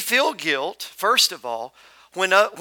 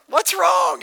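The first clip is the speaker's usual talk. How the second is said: retold shout; 11 semitones higher, 3 dB louder than usual. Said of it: "I'm like".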